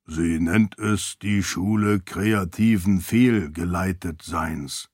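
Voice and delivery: a hint of a solemn old sage; solemn deep voice. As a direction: intone it with dignity, slowly. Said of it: "erklärte das Seon feierlich mit seiner tiefen, erhabenen Stimme".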